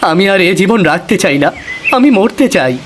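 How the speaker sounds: put-on young man begging, building to a high anguished peak; a touch of desperate pleading; pleading despair. Bishu pleads to die.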